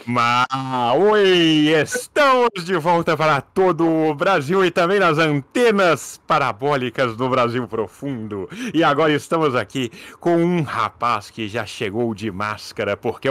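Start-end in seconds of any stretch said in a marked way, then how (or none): 1.0-8.5 Silvio Santos. Acted. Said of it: "Vai lá, Silvio, dá o seu show".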